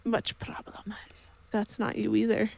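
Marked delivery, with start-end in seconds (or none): 0.0-0.9 softer whispered meme talk; a hushed meme-style answer; doge-speak whisper. Acted. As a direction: whisper it like a joke reply. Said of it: "Such problem".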